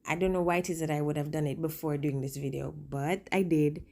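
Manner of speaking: speaking through a swollen lip; slightly puffy lip on the words. Real, not acted. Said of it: "And now my lip is swollen".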